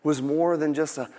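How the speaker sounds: low, soft, tender telling; emotional storytelling. Acted. Nathan tells David of the pet lamb, emotional. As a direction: play gently on the heartstrings. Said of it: "Nathan really turns on the, the emotional".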